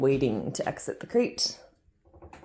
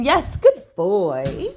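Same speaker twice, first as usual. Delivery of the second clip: slow praise to a dog; 3 semitones higher, 6 dB louder, much slower than usual. Real, not acted.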